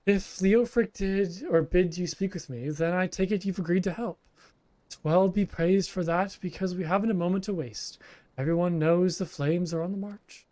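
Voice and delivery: a skittish Lalafell flinching at a stranger; nervous Lalafell. Acted. Lalafell begging the adventurer not to hurt him, nervous. Voices frightened Lalafell NPC.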